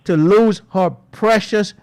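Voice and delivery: an outraged radio host railing at the government; indignant outcry. Real, not acted. Host demands justice.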